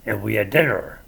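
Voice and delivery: Midwest accent with heavy rolled R's. Shown as a demonstration. Showing how Midwesterners talk, Midwest accent. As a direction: lean on every R in river, father, brother and dinner, Midwest style. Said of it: "we roll our R's".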